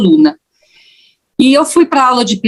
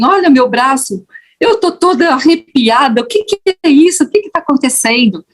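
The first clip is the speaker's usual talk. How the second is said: rising, quickening amazement, pitched higher; amazed goosebumps; 5 semitones higher than usual. Retold or imitated. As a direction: imitate an astonished florist, voice climbing. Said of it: "E ela falava assim".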